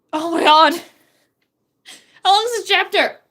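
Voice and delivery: loud, high exasperated outcry; overwhelmed, loud disbelief. Real, not acted. Dismayed by chapter length.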